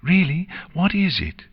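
high, eager filly voice; excited. A narrator's reading. Nix asks about her surprise, high and excited. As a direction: burst with curiosity, pitched right up. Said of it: "Nix asked excitedly".

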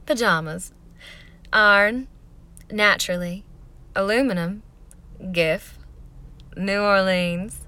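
played-up Southern drawl, word by word; Southern accent. Shown as a demonstration. Vlogger playing up her accent for a pronunciation list, Southern accent. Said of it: "do 'em in a Southern accent".

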